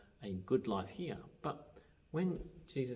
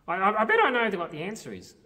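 higher, eager puppet voice tumbling over words; excitable puppet Grover; 8 semitones higher, 12 dB louder than usual. Acted. Puppet Grover eagerly tells the leader about the story. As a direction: play Grover, keen and stumbling.

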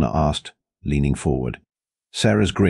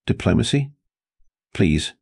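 snorting scorn; 6 semitones higher than usual. A narrator's reading. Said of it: "Sarah snorted".

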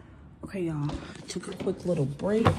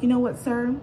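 firm raised voice; 6 semitones higher, 4 dB louder than usual. Retold or imitated. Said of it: "I'm like".

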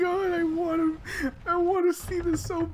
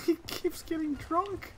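laughing while talking; words squeezed through laughter; 4 semitones lower, 6 dB quieter than usual. Real, not acted. Laughing at drunk game character.

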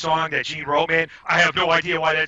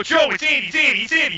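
much higher, louder, hurried retold cry of "it's Andy"; urgent plea; 11 semitones higher, 4 dB louder than usual. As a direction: squeal out your name before he hits you. Revealing himself to charging Joe.

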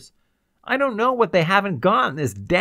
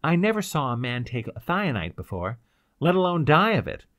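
higher-pitched bitter outpouring; bitter explanation; 6 semitones higher than usual. A narrator's reading. Ryder explains their predicament to the girl, bitterly. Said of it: "he explained to her bitterly".

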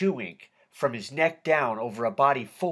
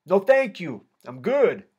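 higher, louder friendly call; yelled out; 5 semitones higher, 5 dB louder than usual. A narrator's reading. Inmate declining Spanky's offer from his cell, yelled out. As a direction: call a polite refusal across the room. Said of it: "I yelled out".

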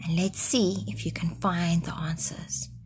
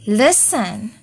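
crying out; 5 semitones higher than usual. Acted. Goat crying out in fright at the tapping, higher. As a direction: cry out in alarm. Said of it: "cried Goat".

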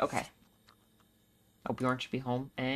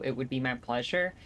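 mock polite, rising; sarcastic politeness. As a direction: fake gracious reply. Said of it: "It would not be my pleasure".

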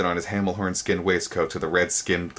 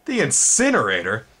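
higher, louder alarmed question; alarmed gasp; 6 semitones higher, 4 dB louder than usual. A narrator's reading. Twig hearing of the incinerator, alarmed question. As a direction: gasp in fright. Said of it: "Twig gasped".

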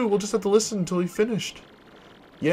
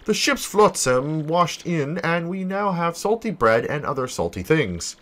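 a lower, solemn journal voice; diary reading; 3 semitones lower than usual. Acted. Merchant writing his castaway journal, solemn and lower. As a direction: read it like a shipwreck log. Flavio's castaway log read.

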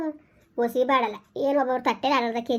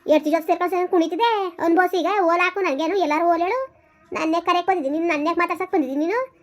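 scolding; 2 semitones higher than usual. Acted. Mother berates son about the missing wife and loan, angrily. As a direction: tear into him over the debt.

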